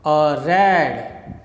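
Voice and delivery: light "a", strong drawn-out RED; iamb, stress on RED. Shown as a demonstration. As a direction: land firmly on "red" after a weak "a". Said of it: "Second iambus".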